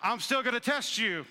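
God teasing, drawn-out and slow; mock divine teasing about the test; voicing God. Pastor voicing God to the congregation, slow and teasing. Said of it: "God said".

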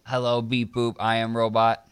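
stiff, mechanical robot voice. Pretend. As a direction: speak like a clunky machine. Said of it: "Why don't you say your name, Mister Robot?".

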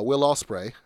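put-on a quick half-hearted British accent on the name. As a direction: toss off "Will Ospreay" in a mock British accent. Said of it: "sorry, that was a shitty accent".

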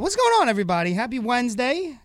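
high, bright hype greeting; hyped show intro. Acted. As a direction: sell the opening with energy. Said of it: "show intro greeting".

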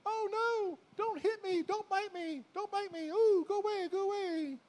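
hammed-up fright at a chasing dog; mock scared. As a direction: beg the dog like a frightened wimp. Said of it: "a dog that chases you".

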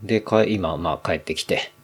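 talking between sips of a drink; a drink in hand while talking; while sipping a drink. Real, not acted. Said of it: "ちょっと飲みながら収録". (飲みながら話す)

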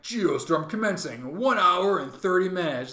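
computer announcement. Retold or imitated. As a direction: announce it like a machine. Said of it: "all of a sudden it's like".

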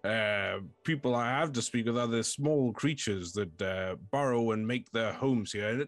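put-on fussy old fort confessing its boredom; lightly voiced fort.

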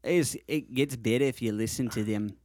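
put-on Australian accent. Shown as a demonstration. Co-host answering praise of the impression, in an Australian accent. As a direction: keep up a casual Aussie accent. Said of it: "your Australian accent's pretty good".

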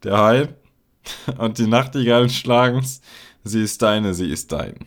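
loud poem recitation, falling at the close; Gedichtvortrag. Acted. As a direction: declaim the verse, settling on the last line. Liest das Gedicht weiter laut vor. (lauter Gedichtvortrag)

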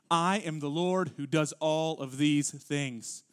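solemn, weighty read of God's own words; scripture reading. Acted. Pastor reading Isaiah aloud to the congregation, solemn and weighty.

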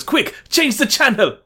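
high, slow hammed-up Zangief; mock Russian villain yelling; Zangief quote. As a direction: play it as a panicked cartoon strongman. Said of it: "Zangief goes".

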